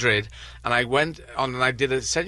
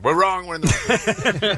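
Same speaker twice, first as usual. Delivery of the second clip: mock panic; 6 semitones higher, 4 dB louder than usual. Panicked realisation retold at door.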